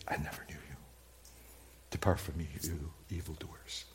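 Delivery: low, soft, grave judge's voice; voice of Jesus. Acted. Jesus turning away the false disciples, low and grave. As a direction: pronounce it softly like a final judgment. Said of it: "And he'll say".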